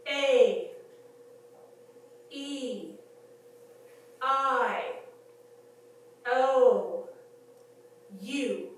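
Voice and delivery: A, E, I, O, U said slowly, each falling away; loud, deliberate vowel drill with long gaps; slow diction practice. Shown as a demonstration. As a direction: sound out each vowel like an elocution pupil. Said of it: "I'd say it slowly".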